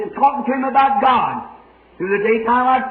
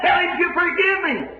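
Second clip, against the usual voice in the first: raised, high pleading cry of a dying woman; retold dying scream; 7 semitones higher than usual. Dying woman cries out to preacher in a raised mock scream. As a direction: call the preacher's name out in agony. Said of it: "screamed out your name as loud as she could".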